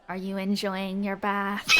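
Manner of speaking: eerie whisper. Acted. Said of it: "you just hear whispered in your ear".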